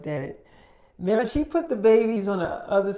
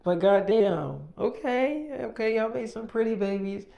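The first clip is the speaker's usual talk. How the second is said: amazed; 5 semitones higher than usual. Retold or imitated. Girlfriend amazed by the babies.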